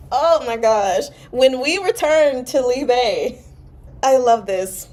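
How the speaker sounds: fangirl over the line; excited. Real, not acted.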